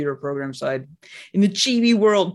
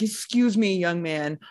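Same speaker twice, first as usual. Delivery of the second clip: teacher voice. Retold or imitated. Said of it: "kindergarten teacher would go in there and be like".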